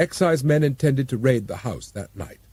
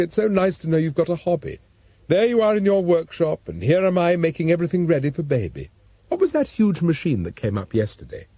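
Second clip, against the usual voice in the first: lightly voiced Jessica; 4 semitones higher than usual. Jessica chatting to Lockhart.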